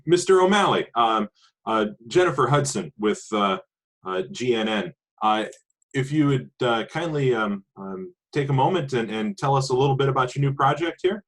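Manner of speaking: TV reporter voice. Acted. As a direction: put on the polished news-anchor charm. Player voices TV reporter approaching.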